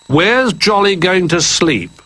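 high, slow curious question; curious rabbit. A narrator's reading. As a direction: ask up high and slowly. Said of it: "asked Rabbit".

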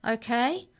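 ordinary delivery

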